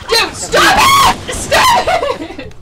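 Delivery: laughing protest. Real, not acted. Laughing pleading shout.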